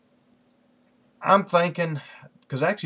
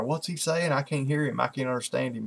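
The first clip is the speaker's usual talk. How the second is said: lightly mimicked complaint, slightly raised; puzzled old listeners; 2 semitones higher than usual. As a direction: imitate baffled old churchgoers straining to hear. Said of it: "a couple of the old people".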